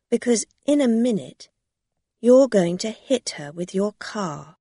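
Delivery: fast, loud warning; urgent. Acted. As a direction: press the danger.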